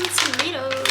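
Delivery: tomatoes with an American pronunciation; American accent. Real, not acted. Listing salad ingredients to viewers, accidental American accent. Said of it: "I said an American accent".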